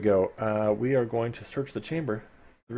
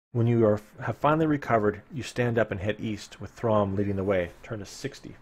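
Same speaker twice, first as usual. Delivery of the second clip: story narration. Acted. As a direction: paint the dank cavern for listeners. Reading gamebook narration.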